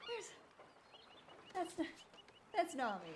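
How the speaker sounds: usual speaking voice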